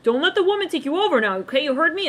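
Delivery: mock stern father warning; imitating dad. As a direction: lecture him like a bossy dad. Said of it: "maybe their dad would tell them".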